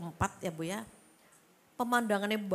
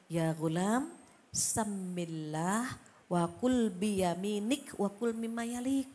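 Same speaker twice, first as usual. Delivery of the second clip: gentle Prophet's words; 3 semitones lower, slower than usual. Retold or imitated. Prophet advising a boy at a meal, slow and gentle. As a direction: recite it slowly like tender advice. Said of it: "Apa kata beliau?".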